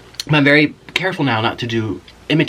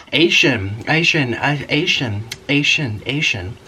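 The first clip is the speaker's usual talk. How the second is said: mock American "Asian" endings, repeated; imitating American English; much slower than usual. Friend recalling how they imitated Americans, mock American accent. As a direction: lightly parody American English as one repeated syllable pattern. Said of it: "imitate Americans, we'd be like".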